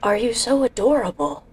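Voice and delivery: squealing laugh over something cute; gush, then squeal with laughter. Acted. Character gushing over cute tree.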